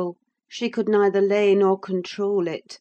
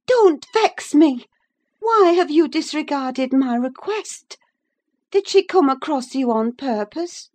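high, loud and pleading; upset high woman's voice; agitated Catherine; 7 semitones higher, 4 dB louder than usual. A narrator's reading. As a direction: scold him, stretched and strained.

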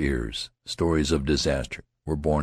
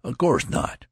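higher stern reply; 8 semitones higher than usual. A narrator's reading. Friend answering the youth sternly. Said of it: "the friend's voice was stern".

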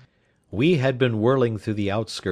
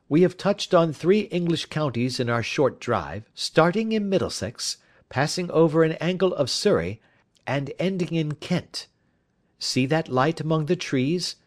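brisk, higher-pitched detective companion; a hint of an assured detective, pitched up; lightly voiced Holmes; 6 semitones higher than usual. Detective points out the villa to his companion, lightly voiced and assured.

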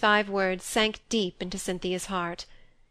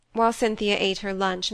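ordinary delivery

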